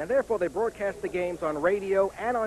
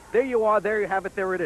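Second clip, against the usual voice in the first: sign-off catchphrase; 4 dB louder than usual. Pretend. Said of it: "Fox Sports Net saying".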